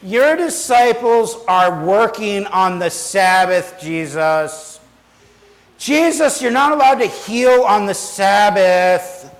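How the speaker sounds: put-on childish, whiny complaining, one word drawn out. Speaker acting out the Pharisees complaining to Jesus like squabbling children: mock-whiny complaining. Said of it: "this whiny tone to them".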